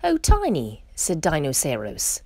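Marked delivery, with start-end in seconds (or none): 0.0-0.8 very high wail of protest; high, put-out moan; mild complaint. A narrator's reading. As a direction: protest in a high storybook character voice. Disturbed Dinoceros complains in a story.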